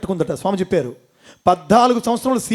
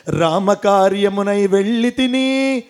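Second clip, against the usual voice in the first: Hanuman's plea; slower than usual. Acted. Hanuman speaks to Bharata.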